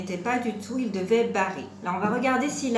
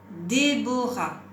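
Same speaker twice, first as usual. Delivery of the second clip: slow, drawn-out dictation of Décorer; measured, syllable-by-syllable teacher's model; word dictation; much slower than usual. Shown as a demonstration. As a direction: stretch each syllable of the word.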